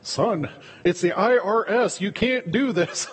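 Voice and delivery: half-laughing, pleading dad; mock-urgent father hushing his son; lightly exasperated father, a laugh breaking through. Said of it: "you're like".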